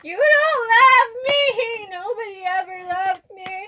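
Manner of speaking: high, drawn-out mock crying; loud, slow tantrum sob, easing in volume; hammed-up child's wail. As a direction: bawl like a rejected toddler. Child character wails when refused.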